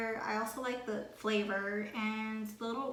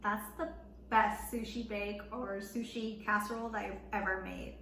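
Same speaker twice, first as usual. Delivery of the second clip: talking through a mouthful; words around a bite of food; mouth full. Real, not acted. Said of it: "I'm gonna talk with my mouth full".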